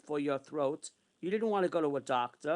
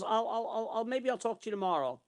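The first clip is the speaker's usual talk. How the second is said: higher-pitched, stammering mock huff; upset; 5 semitones higher than usual. Woman putting him off till tomorrow, mildly upset. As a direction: imitate her being put out. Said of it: "she was, like, upset with me".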